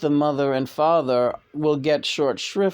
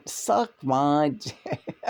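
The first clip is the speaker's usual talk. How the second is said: laughing; 4 dB quieter, much slower than usual. Retold or imitated. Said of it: "I used to say".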